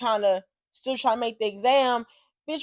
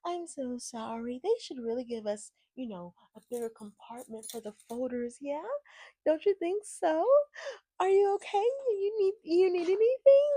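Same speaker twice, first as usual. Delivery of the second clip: mimicked apologetic officer; 6 semitones higher, 6 dB quieter than usual. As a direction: put on a sugary fussing voice, rising as it goes.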